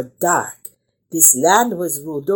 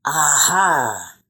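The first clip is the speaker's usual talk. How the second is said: with a smile; 2 semitones lower than usual. Acted. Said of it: "said Zio Narratore with a smile".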